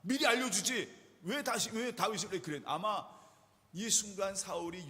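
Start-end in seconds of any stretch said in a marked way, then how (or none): 0.0-2.6 angry scolding. Retold or imitated. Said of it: "그러면서 온갖 얘기를 하면서".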